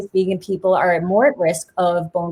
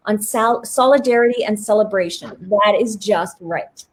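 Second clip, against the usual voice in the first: reading aloud. Acted. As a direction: lightly read foreword, a touch formal. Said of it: "I just wanna read this".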